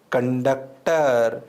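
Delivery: drawn-out conductor, each syllable slow. Shown as a demonstration. Teacher telling students to listen carefully, drawn out. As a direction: stretch "conductor" slowly so it sinks in. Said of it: "ध्यान से सुनना".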